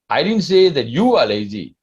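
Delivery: you pressed hard, as if someone else is lazy; stress on you. Shown as a demonstration. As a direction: put the weight on you. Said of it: "Or I can even say like this".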